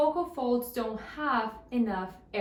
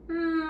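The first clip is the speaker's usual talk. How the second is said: steady hum; 6 semitones higher than usual. Shown as a demonstration. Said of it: "Let's do it once again".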